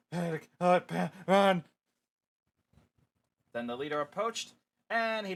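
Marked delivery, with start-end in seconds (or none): 0.1-1.6 panicked shout. Acted. Fleeing monsters.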